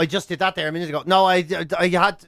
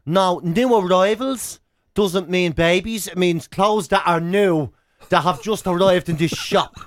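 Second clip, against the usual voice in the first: slow, over-patient put-on shop assistant; sassy shop assistant; slower than usual. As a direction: spell it out slowly like a sassy clerk. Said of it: "And she goes".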